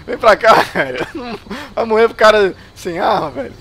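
loud, urgent calling out; excited gamer shouting. Real, not acted. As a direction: shout at the enemy to come. Luring enemy in a fight.

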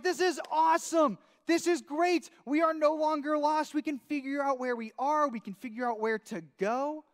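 cheer, then settle; excited. Retold or imitated. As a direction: hiker thrilled to find the map, high and loud. Finding the map.

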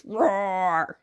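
mild, drawn-out play roar; tiger roar. Shown as a demonstration. Parent correcting toddler on tiger sound, mild roar. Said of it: "No, a tiger says".

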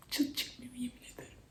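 hushed whisper in silence. Real, not acted. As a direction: barely breathe the words. Quiet empty room, hushed.

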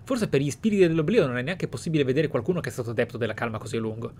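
ordinary delivery

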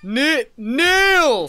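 high, loud furious kneel; shouted command. Pretend. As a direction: yell it at him, losing patience.

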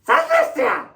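a loud, blunt demand down the phone. Acted. Rude order-taker loudly asking the caller what they want. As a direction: bark the question at the caller. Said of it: "Yok, bağırmıyorum ben".

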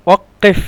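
ওয়াক্কেফ with the middle k/q held double; ওয়াক্কেফ, its middle sound pronounced twice as one long consonant; doubled consonant. Shown as a demonstration. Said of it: "দুইবার উচ্চারণ হবে".

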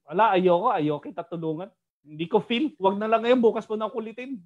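offended refusal. Acted. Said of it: "parang nainsulto pa si God".

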